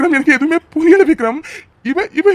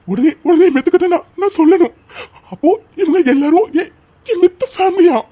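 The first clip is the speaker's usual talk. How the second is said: higher, breathless, half crying with joy; overjoyed and tearful; 3 semitones higher than usual. Acted. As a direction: rush the words out in happy disbelief. Learns orphan friend has a family. (மகிழ்ச்சியில் கண்ணீருடன் பரபரப்பு)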